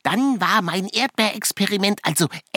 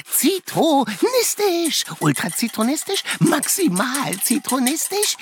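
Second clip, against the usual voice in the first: playful; 4 semitones higher than usual. Acted. Showing off a made-up word.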